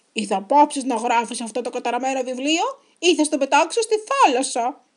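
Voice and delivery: loud, irritated growl of a threat. A narrator's reading. Pirate threatening to toss Henry's book in the sea, growling. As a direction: growl out an angry ultimatum. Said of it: "γρήλωσε ο Μαυραυτιάς".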